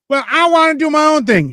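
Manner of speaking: high whiny put-on voice; high mocking whine; mock petulant state. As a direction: whine it like a spoiled child. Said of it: "states can't go".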